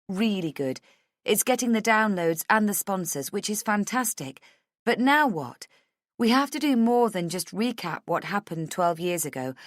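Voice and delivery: earnest pitch to a sceptical boss; insistent Rachel. Acted. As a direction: argue the case eagerly. Voices Rachel arguing her case.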